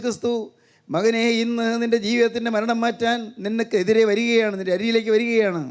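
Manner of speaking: sustained, declamatory sermon delivery; preacher's level, insistent intonation; preaching. Acted. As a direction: proclaim it steadily to the congregation.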